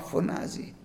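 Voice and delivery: φωνάζει breathed out as a soft whisper; hushed. Acted. Preacher hushes the word φωνάζει for the congregation. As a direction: whisper φωνάζει, letting it hang. Blood of Abel cries out.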